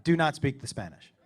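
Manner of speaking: low, measured order; firm warning. Retold or imitated. Dad warning his son in Mexico, firm and controlled.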